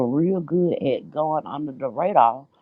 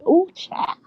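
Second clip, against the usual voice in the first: high admiring ooh. Real, not acted. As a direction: gush over her new look. Admiring exclamation.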